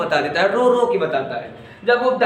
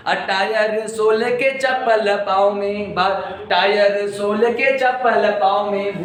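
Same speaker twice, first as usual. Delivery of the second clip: slow, rhythmic poem recital; slow sing-song recitation of a funny poem; slower than usual. Acted. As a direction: recite the verse with a slow lilting beat.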